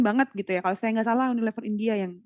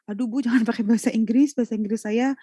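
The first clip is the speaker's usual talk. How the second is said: nervous laughing plea; 2 semitones higher than usual. Retold or imitated. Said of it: "langsung bilang".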